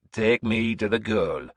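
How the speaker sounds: a hint of the old seeress, commanding; lightly voiced crone order. Seeress ordering her servant, slow. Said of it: "she ordered".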